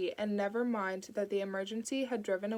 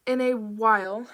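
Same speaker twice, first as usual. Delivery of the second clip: put-on louder farewell in a light Indian accent; 9 dB louder than usual. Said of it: "She said it in a light Indian accent".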